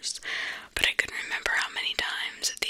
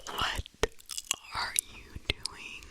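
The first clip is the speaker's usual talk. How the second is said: hissed; 6 dB quieter, slower than usual. Acted. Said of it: "Josh hissed".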